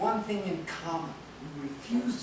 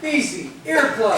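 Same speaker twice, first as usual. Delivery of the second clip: laughing punchline, higher and louder; laughing joke; 7 semitones higher, 9 dB louder than usual. Real, not acted. Joking to the couple about her son: laughing quip. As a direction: tease through a laugh.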